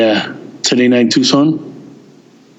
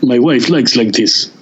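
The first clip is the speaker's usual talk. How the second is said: slow, lightly imitated Russian accent; a hint of a Russian accent, slow. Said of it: "in his Russian accent".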